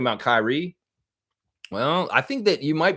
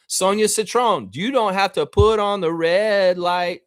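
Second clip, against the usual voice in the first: raised mock plea; 8 semitones higher, 4 dB louder than usual. Mock address after singing.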